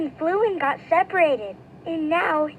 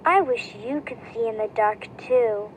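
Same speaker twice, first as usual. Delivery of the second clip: sighing; 5 semitones lower, 3 dB quieter than usual. Acted. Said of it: "then she sighed".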